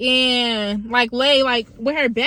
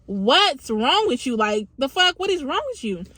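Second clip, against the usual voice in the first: drawn-out, exasperated demand, retold; irritated; 2 semitones higher, slower than usual. Woken by a flashlight in the face, retelling her irritated demand. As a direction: stretch it out, then rise in exasperation. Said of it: "I'm irritated because why are you flashing the light".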